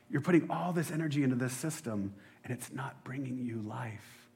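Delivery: soft, tender pleading; a hint of a tender Jesus voice; gentle Jesus. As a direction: speak gently to the weary. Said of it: "I can imagine Jesus being like".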